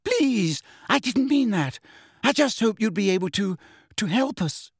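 high, squeaky, anxious voice; horrified pleading. A narrator's reading. Hermione taking back her words, horror-struck. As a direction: backtrack in a high, horrified plea. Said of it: "said Hermione in a horror-struck squeak".

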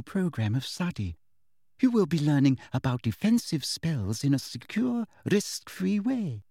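lightly voiced prim teacher, falsely kind; sweet teacher voice. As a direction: talk down to her with syrupy politeness.

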